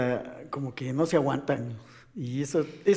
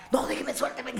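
alzando mucho la voz, fingiendo forcejear; suéltenme, como si quisieras pelear de verdad; mock furious struggle; 8 semitones higher than usual. Acted struggling to break free. (un forcejeo de broma, agudo y fuerte)

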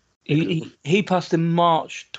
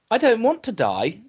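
put-on higher, slow little girl's plea; worried child; 9 semitones higher, 3 dB louder than usual. Mother voices daughter saying she doesn't want to die, small and slow.

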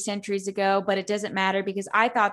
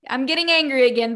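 getting angry; 4 semitones higher, 8 dB louder, faster than usual. Real, not acted.

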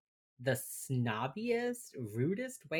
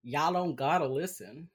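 put-on Texas accent; 4 dB louder than usual. Joking to listeners, Texas accent. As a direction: toss it off in a Texas twang. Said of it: "my accent".

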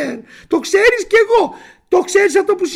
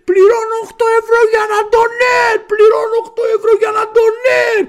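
mock furious yell, louder and higher; angry shouting man; 5 semitones higher, 4 dB louder than usual. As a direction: shout the complaint like an enraged customer. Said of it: "άρχισε να φωνάζει". (θυμωμένη κραυγή διαμαρτυρίας)

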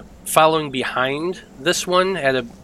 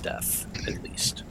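whisper; 13 dB quieter, slower than usual. Real, not acted. GM trails off describing violent death.

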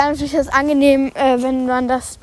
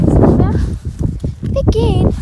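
calling out; 8 semitones higher than usual. Real, not acted. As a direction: coax the horse onward. Ruft das Pferd. (hoher Ruf ans Pferd)

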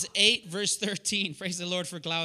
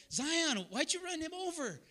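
put-on raised pitch, accusing question to a child; exasperated scolding; 8 semitones higher, 4 dB quieter than usual. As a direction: re-enact a dad scolding his little girl. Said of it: "I just said it like that".

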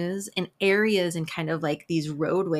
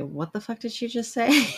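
imagined baffled listener; 4 semitones higher than usual. Retold or imitated. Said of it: "like, say".

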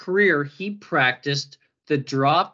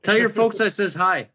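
hammed-up, higher Minnesota accent; 5 semitones higher than usual. Shown as a demonstration. Host joking with co-host after asking for a Minnesota accent, mock Minnesota accent. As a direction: put on a folksy Minnesotan lilt. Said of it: "Let's hear your best Minnesota accent".

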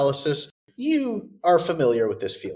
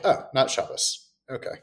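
mock whisper; 2 semitones lower, 6 dB quieter than usual. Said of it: "I'm like".

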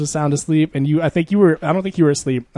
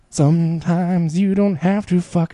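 imitating Andrew; 4 semitones higher, slower than usual. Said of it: "he was like".

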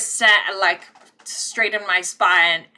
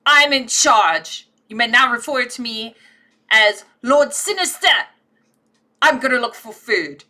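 pompous self-proclaimed lord; 3 semitones higher, 5 dB louder than usual. Acted. Kitten proclaims himself Lord Sinister to siblings, pompous. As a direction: declare yourself ruler.

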